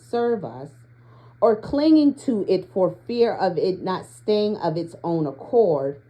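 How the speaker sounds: measured, deliberate card reading; read-aloud. Acted. Reader sharing an oracle card's guidance with listeners, measured read-aloud.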